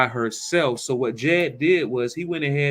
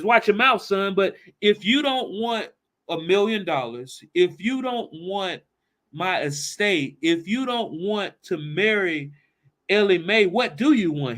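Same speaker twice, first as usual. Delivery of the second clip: stern father; 4 semitones higher than usual. Retold or imitated. Father scolding then demanding.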